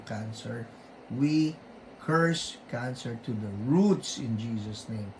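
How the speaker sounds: firm declaring prayer, commanding the sickness out; rebuking prayer. Acted. Host praying over viewer's cancer, firm rebuking prayer. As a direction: pray with authority against the illness.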